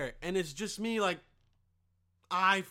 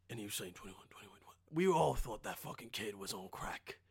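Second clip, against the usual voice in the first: much softer, low mock English accent with whispered bits; hushed English accent; 9 semitones lower, 8 dB quieter than usual. An English bloke quietly confiding about seeing Savage, soft mock English accent. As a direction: lean in and tell it hushed, in a put-on English accent.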